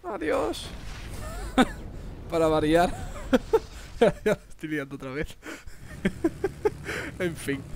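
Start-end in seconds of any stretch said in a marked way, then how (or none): 0.7-2.2 breathy laugh. Real, not acted. Laughs after failing. 5.4-7.1 breathy laugh. Real, not acted. Laughs at himself.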